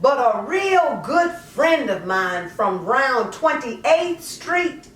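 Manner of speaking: lightly voiced mother justifying herself, conversational; poem in character. A mother explains giving up her daughter, lightly in character. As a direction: speak it as the mother, half confessing, half defending.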